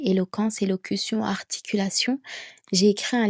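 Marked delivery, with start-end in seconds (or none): none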